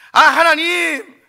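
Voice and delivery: whining. Acted. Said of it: "투정 부리듯이".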